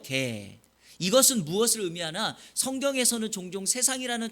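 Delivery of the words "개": "개" said slowly, one low drawn-out syllable; sounding out words. Shown as a demonstration. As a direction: spell out "개" carefully, pitch dropping. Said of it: "아이가 아니라 어이예요".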